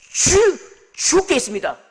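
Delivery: 죽 punched high and hard, then 죽게 있습니다; stuttered stress. Retold or imitated. Pastor imitating the stutterer's hard 죽 sound. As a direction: spit out the 죽 forcefully. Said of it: "주를 세게 뿌리는 거죠".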